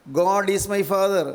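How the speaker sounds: each word drawn out very slowly, "God is my father"; slow teaching model. Retold or imitated. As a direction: spell out "God is my father" slowly for a child to copy. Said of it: "മോൻ ഇങ്ങനെ പറയൂ". (കുട്ടിക്ക് ഏറ്റുപറയാൻ വളരെ പതുക്കെ)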